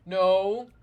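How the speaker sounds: loud, sudden cry of No; shouted denial. Acted. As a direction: blurt it out in shock. Girl character's shocked denial.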